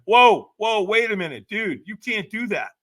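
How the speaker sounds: pleading with himself to stop; alarmed inner voice. Retold or imitated. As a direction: stop yourself in panic. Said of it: "I went".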